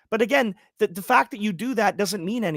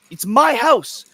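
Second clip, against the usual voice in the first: louder, stress on my; 6 semitones higher, 7 dB louder, slower than usual. Real, not acted. Angry rant at unwanted immigrant.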